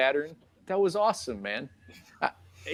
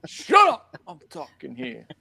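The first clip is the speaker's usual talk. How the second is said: put-on loud old lady; slower than usual. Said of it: "that little old lady that won't whisper".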